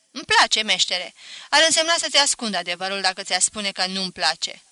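voiced apprentice, earnest and timid; shy apprentice. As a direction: apprentice daring to reply. Apprentice answers the master.

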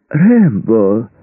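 high, ringing, fake-delighted call; false joy. A narrator's reading. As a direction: greet him with overdone delight. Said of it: "В голосе Мердока звучала фальшивая радость". (с фальшивой радостью, нараспев)

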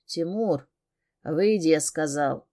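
growling order. Acted. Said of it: "Бес рычит".

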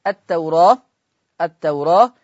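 التوراة with the alef in taqlil, between a and e; vowel reduction, taqlil. Shown as a demonstration. Teacher shows التوراة with reduced alef. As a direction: say التوراة with the alef tilted toward e. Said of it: "الألف مقللة قولا واحدا".

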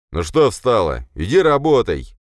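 loud, angry bark, rising in pitch; irritated boss shouting an order. A narrator's reading. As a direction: bark at a subordinate to get moving. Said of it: "рявкнул на неё Беспалов".

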